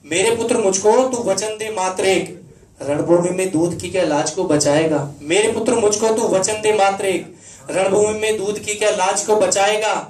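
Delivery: declaimed poem in a mother's words; stirring stage recitation, lightly in role; mother's verse plea. Acted. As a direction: challenge a son in ringing, rhythmic verse. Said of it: "उसकी माँ उसे जो कहती है".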